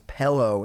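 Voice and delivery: "pillow" said as pellow; mispronounced pillow. Retold or imitated. Roasting Waka's pronunciation, "pillow" said as pellow. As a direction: say "pillow" with an eh vowel, PELL-oh. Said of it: "says pillow instead of pillow".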